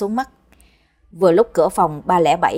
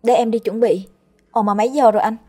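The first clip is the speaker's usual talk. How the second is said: put-on higher, lively girlish voice; young sister voice; 5 semitones higher, faster than usual. Kim remembering her thesis defense, higher girlish voice. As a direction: play the flustered little sister.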